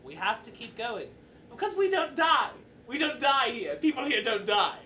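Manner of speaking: rising from level to loud, emphatic; insistent Mister Light. Acted. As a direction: drive the point home in character. Mister Light insisting on their curse.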